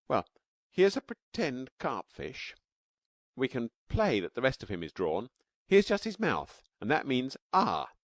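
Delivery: put-on high, bright-eyed child voice, eager; little girl Taffy. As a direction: play a small girl explaining her drawing.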